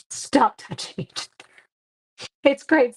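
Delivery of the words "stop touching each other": laughing teacher. Retold or imitated. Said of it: "the things that I spend my day saying".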